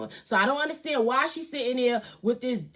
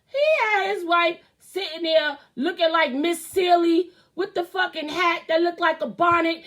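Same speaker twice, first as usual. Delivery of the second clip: loose put-on Italian accent, pitched up; ranting in a hammy Italian accent; mock Italian voice; 4 semitones higher than usual. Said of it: "I gotta put my fucking Italian voice on".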